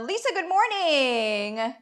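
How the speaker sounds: slow, oily salesman greeting; sleazy salesman voice. Acted. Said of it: "Janet, your sleazy salesman voice cracks me up".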